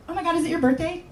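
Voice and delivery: gushing coworkers. Retold or imitated. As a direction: coo with nosy excitement. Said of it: "they go".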